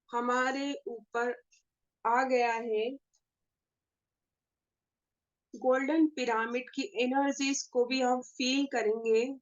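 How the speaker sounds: measured meditation guide with long pauses; guided meditation. Acted. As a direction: lead the group gently into meditation, pausing between phrases. (ध्यान कराने वाली ठहरी हुई आवाज़)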